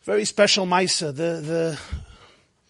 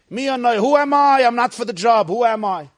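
pleading Moshe; 3 dB louder than usual. Acted. Moshe pleading excuses to Hashem.

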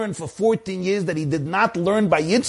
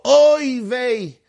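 mock groaning oy vey, higher; krechtsing sigh; 3 semitones higher, much slower than usual. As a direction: kvetch it like a weary old Jew. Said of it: "I know how to krechts and sigh and go".

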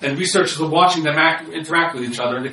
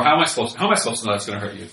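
defensive retort; 5 semitones lower, faster than usual. Retold or imitated. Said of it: "you're becoming defensive".

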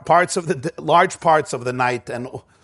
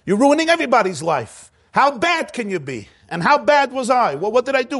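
higher, exasperated scolding; judgmental rant; 6 semitones higher than usual. Retold or imitated. Parent scolds the runaway, higher and exasperated. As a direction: vent your frustration at the sheep, pitch raised. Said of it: "my instinctive response is judgmental".

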